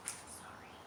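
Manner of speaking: whispered apology; whispered sorry. Real, not acted. Reader excuses a slip to listeners, whispered. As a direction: breathe a quick sorry. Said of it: "whispered aside".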